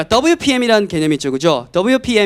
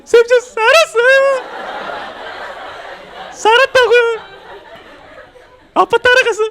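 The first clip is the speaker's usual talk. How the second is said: very high, slow, laughing student voice; indignant student; 3 dB louder, slower than usual. Retold or imitated. Student telling the teacher he lived abroad, high and laughing. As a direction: squeal it out like a wronged kid.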